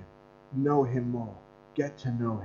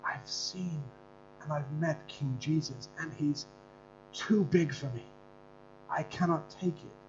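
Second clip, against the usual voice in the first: tearful student; 3 semitones higher than usual. Retold or imitated. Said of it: "tears are now pouring".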